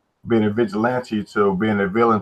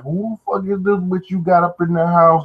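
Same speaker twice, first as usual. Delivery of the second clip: mock outrage, pitched way up; angry baby mama; 8 semitones higher than usual. Retelling her confronting him about the girl in his house, mock angry. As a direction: put on a high, scolding baby-mama voice. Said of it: "like an angry baby mama".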